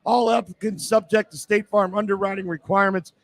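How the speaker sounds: live radio commercial; radio ad read. Acted. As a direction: clear ad read, phone number spelt out. Host reads the sponsor ad.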